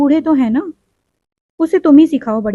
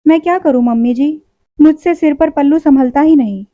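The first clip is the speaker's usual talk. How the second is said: pouting whine; 3 semitones higher than usual. Acted. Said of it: "ठुनक कर बोली".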